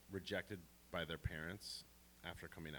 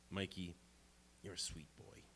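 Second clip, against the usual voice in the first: retold whisper; 7 dB quieter than usual. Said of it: "she whispers to me".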